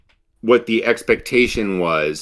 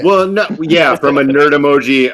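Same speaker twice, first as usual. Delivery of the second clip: nerd emoji voice; 2 semitones higher, 4 dB louder than usual. Acted. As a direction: talk like a buck-toothed nerd pushing up his glasses. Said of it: "I'm pushing my glasses up and getting my buck teeth out".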